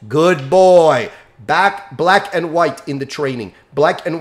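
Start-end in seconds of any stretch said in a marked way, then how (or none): 0.1-1.1 firm praise. Shown as a demonstration. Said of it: "And then".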